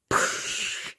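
hissing burst of fizz; imitated soda spray. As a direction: imitate a pop can spraying open. Imitates pop spraying open.

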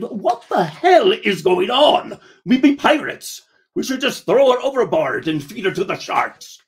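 mock pirate outrage; exasperated pirate outburst. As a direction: bark it out like an outraged captain. Pirate narrator yells at partner.

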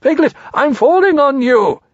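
high, loud, urgent warnings; Pooh crying out. A narrator's reading. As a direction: call out in alarm as a storybook bear. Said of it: "cried Pooh".

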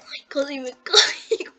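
breathless whisper of near-miss. Real, not acted. Player nearly falls off a ledge, whispers in relief. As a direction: hush it like you barely held on.

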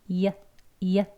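short 이어 glide; 이어 said short and light; 이어 modelled briefly; vowel demo. Shown as a demonstration. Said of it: "이어 이렇게 발음을 해주시면".

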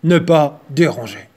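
loud gruff bear voice. Acted. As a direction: growl it like a grumpy bear. Title read as bear's growl.

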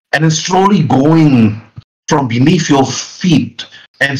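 slow, deliberate suspense narration; measured tabletop storytelling; game master scene-setting. Acted. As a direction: stretch key words to build mystery.

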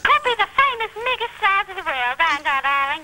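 put-on girl's light Australian twang; imitating Australian. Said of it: "You sound like an Australian, too".

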